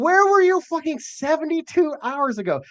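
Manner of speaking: high, incredulous outburst; mock exasperation. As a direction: act stunned at the late tip. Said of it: "and I was like".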